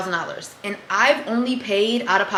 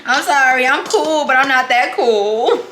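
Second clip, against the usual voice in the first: laughing; 3 semitones higher, 6 dB louder, slower than usual. Retold or imitated. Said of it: "It was a couple songs I was like".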